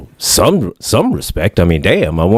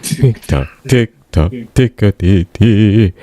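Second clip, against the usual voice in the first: Willy Wonka singsong; slower than usual. Retold or imitated. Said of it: "like it was Willy Wonka".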